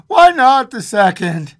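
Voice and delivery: high, loud eager demand; feverish. A narrator's reading. Old woman pushing for a second wish, feverish. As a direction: urge it feverishly. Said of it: "said the old woman feverishly".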